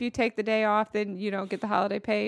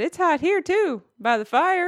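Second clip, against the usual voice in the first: quoting dad; 6 semitones higher, slower than usual. Retold or imitated. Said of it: "he said".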